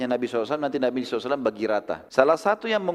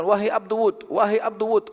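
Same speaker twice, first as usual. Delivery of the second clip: calling out; 7 semitones higher than usual. Acted. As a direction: call his name out to him. Umayyah keeps calling his name.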